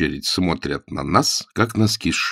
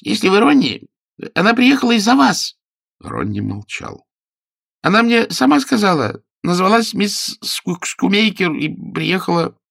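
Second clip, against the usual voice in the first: higher voice, pleading and fast in places; a nervous man talking his way out; high-pitched anxious pleading from inside a wardrobe; frightened detective voice; 13 semitones higher, 3 dB louder than usual. A narrator's reading.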